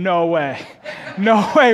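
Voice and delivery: mock no way through laughter; laughing no way. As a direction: laugh out the refusal. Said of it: "everything else about her is saying".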